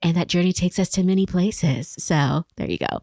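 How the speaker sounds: lightly put-on calming voice; calming therapist voice. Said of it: "I like that voice. ... is that your therapist voice?".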